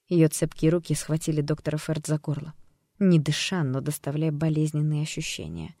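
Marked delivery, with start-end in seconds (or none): none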